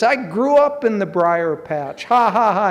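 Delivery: gloat, rising into spoken ha-ha-ha; mock triumphant laughing. Escaped rabbit taunts the fox, mock laughing triumph. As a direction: crow it with a put-on laugh. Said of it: "and Brer Rabbit laughs".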